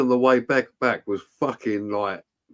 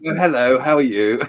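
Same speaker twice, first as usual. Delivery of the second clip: posh voice; 3 dB louder than usual. Retold or imitated. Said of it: "I was all posh".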